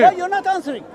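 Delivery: loud sharp voice. Real, not acted. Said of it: "Why are you shouting?".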